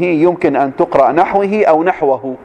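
نحوه said naħwihi, then naħwahu; two case readings. Shown as a demonstration. Teacher showing students نحوه as naħwihi, then naħwahu. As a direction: read نحوه with kasra, then with fatha. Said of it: "يمكن أن تقرأ بالجر ويمكن أن تقرأ بالفتح".

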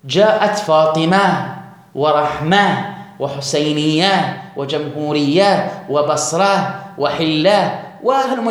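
Arabic pausal ha, slow and deliberate; pausal h endings, slowly. Shown as a demonstration. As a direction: demonstrate the ha stops, word by word. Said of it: "فتقول".

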